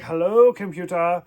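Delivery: badly faked accent, hello lifted, computer falling; a hammy, clumsy attempt at an accent; terrible Scotty accent. Vlogger imitating Scotty calling the computer, terrible accent. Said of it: "that's a terrible accent".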